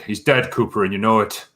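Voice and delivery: lightly imitated Irish accent; Ryan's Irish twang. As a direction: quote it with a hint of an Irish twang. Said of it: "Irish twang through it. It's like".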